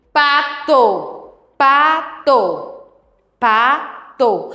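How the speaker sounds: "Pato" said in two even beats; spaced syllables. Shown as a demonstration. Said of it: "falamos com passado". (fala compassada, "Pa-to")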